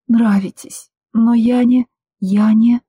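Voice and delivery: can't get the words out past the lump; crying girl trying to explain herself to him; voice breaking. Acted. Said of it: "Комок застрял в моём горле".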